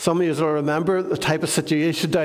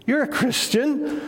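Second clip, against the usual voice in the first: mock surprise; 7 semitones higher, slower than usual. Questioner doubts the Christian.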